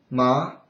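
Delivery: MA rising like a question; second tone. Shown as a demonstration. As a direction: lift the pitch through MA.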